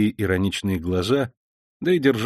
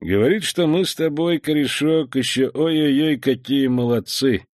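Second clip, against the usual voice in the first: mocking grin; 4 semitones higher than usual. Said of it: "ответил ему с усмешкой".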